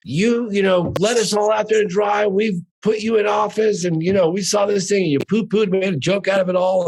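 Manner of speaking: a constituent scolding the governor; laying into him. Retold or imitated. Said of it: "really kind of laid into him".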